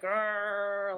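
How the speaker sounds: mock animalistic grrr growl; animal grunt. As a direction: grunt it out like a beast.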